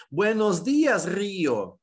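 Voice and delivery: "Buenos dias, Rio" high and strong on DEE-as and REE-o; stressed I in Spanish. Shown as a demonstration. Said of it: "dias vai estar acentuado e o Rio". ("Buenos dias, Rio" em espanhol, com I tônico em dias e Rio)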